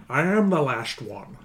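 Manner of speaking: slow, lightly voiced Connery dragon. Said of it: "we've kind of parodied it a little bit because you can i-, imitate him".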